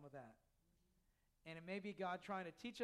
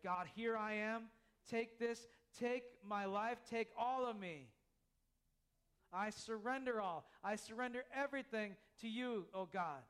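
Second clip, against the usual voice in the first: earnest prayer. Acted. Acted prayer of surrender.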